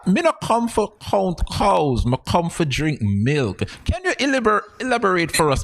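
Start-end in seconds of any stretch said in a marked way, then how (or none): 0.1-3.6 slow, imitated Patois catchphrase; quoting Jamaican Patois. Host reciting the guest's favorite saying, imitated Patois. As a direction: quote the Jamaican saying slowly. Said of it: "your favorite quote is".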